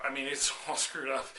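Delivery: laughing through it's all screwed up; laughing dude doctor. Retold or imitated. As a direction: chuckle while repeating the bad news. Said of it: "was like".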